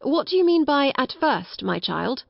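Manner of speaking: encouraging. A narrator's reading. Kind father questioning a little girl, encouraging. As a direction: coax the child with an encouraging lift. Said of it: "encouraging voice".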